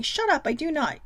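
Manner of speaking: imitating sister in a whisper; whispered sister retort. Voicing her sister's denial, whispered. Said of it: "I can hear her saying".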